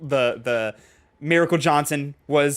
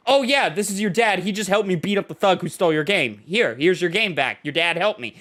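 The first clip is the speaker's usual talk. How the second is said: a bit higher, smooth quick cover story; lightly voiced Kiryu cover; 4 semitones higher than usual. Kiryu covering for the father in front of the son, lightly higher. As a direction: cover for the dad without missing a beat.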